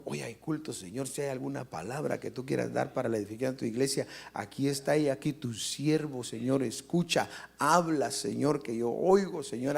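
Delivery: gentle demonstrated prayer; modeled prayer. Shown as a demonstration.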